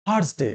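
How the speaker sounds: থার্সডে with the r sounded, "thars-de"; mispronounced Thursday. Shown as a demonstration. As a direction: say থার্সডে with a clear "r" before the s. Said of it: "আবার অনেকে অন্যরকম উচ্চারণ করি". (থার্সডে-র ভুল উচ্চারণ, র স্পষ্ট)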